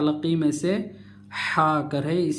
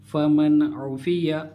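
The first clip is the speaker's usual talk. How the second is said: fluent reading. Shown as a demonstration. Teacher reads fluently as an example for students. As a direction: read फमन उफिया smoothly and unbroken. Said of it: "यहाँ से रवां पढ़ता हूँ".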